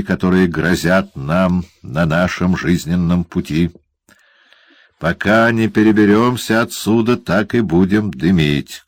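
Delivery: malicious teasing dwarf; gloating dwarf. Acted. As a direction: savour the other man's discomfort. Quilp lectures.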